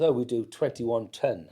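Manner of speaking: lightly put-on posh English, "ton" said as "ten"; posh-sounding. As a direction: imitate Dad poshing up his accent a little. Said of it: "Your dad went all posh".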